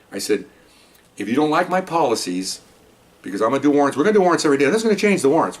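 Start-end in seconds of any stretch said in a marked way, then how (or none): 1.2-5.6 laying down the law. Retold or imitated. New boss warning his squad about daily warrants, forceful and raised. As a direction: hammer home the new rules.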